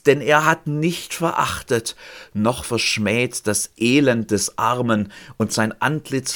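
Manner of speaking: slow, solemn scripture reading; solemn reading from the psalm. Acted. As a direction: lift the psalm out slowly. Reads psalm verses.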